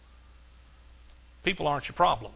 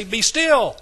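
loud, raised-pitch shout; hollered command; 5 semitones higher, 8 dB louder than usual. Acted. Preacher showing how to answer a rolling storm, hollered. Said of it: "Sometimes you gotta do that".

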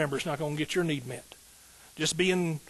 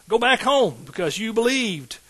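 slow, high and loud proclamation; proclaiming scripture; 6 semitones higher, 6 dB louder, slower than usual. Acted. Preacher reading Jesus's words to the congregation, slow and loud. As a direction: ring out every word.

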